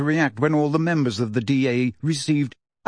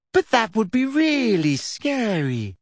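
put-on high, slow anxious girl; scared girl voice; 8 semitones higher, slower than usual. A narrator's reading. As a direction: fret like a nervous schoolgirl. Lavender voice.

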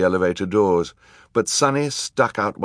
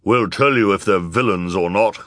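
loud put-on villainess voice; villain woman laying down the law; villainous woman; 2 semitones higher, 5 dB louder than usual. A narrator's reading. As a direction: announce it like a villainess. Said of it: "said the villainous woman".

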